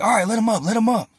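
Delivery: high-pitched imitated bystanders; calling out. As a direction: raise the pitch, calling off a fight. Bystanders call to stop the fight.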